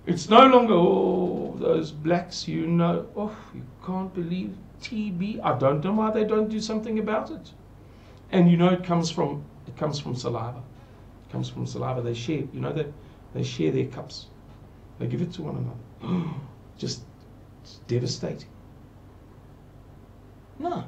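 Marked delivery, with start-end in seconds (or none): 0.7-16.3 imitating his mother. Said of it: "That's how my mother used to talk". 16.5-18.5 gasp, then whisper it; a hushed, horrified aside with an audible gasp; mother's gasping whisper. Retold or imitated. Imitating his mother, a gasp then a whisper. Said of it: "That's how my mother used to talk".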